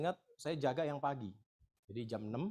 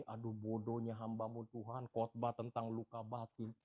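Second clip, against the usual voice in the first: lament; 6 semitones lower, 6 dB quieter, slower than usual. Retold or imitated. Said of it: "saya bilang begini".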